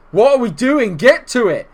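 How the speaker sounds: loud, high urgent scolding; exasperated shout. Real, not acted. Gamer urging defenders to react, exasperated shout. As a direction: yell at them to move, exasperated.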